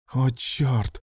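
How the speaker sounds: breathy gasp of surprise; breathed out. A narrator's reading. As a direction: let it out on the breath. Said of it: "выдохнул Алан".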